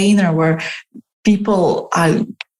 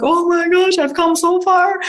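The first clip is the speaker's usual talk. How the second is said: much higher, delighted gush; amazed at your own growth, higher; amazed future self; 10 semitones higher than usual. Retold or imitated. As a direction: gasp at how far you've come.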